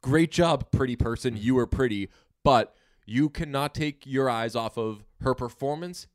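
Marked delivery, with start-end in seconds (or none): 0.0-2.1 mock praise. Not just complimenting an actress's looks, mock praise. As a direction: hand out hammed-up empty praise.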